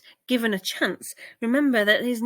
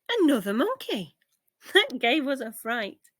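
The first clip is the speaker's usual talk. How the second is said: monkey voice; 3 semitones higher, 4 dB louder than usual. Acted. Another monkey character speaks.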